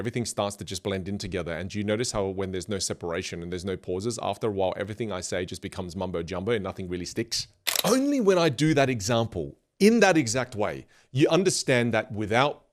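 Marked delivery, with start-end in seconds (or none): 0.0-7.5 fast run-on talk with no breaks between phrases; rushed, no pauses. Shown as a demonstration. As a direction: rattle it all off in one breath so it blurs. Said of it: "Watch what happens if I just keep talking without pauses".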